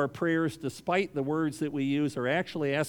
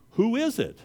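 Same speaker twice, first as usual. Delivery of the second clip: startled high question; 9 semitones higher, 3 dB louder than usual. Acted. Dangling man asks who.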